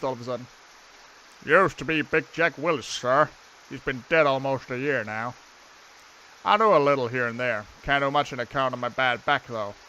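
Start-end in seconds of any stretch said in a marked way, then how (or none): 1.4-9.7 gardener with a badly faked Scottish accent; attempted Scottish accent. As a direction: have a clumsy go at Scottish. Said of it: "I can't do a Scottish accent".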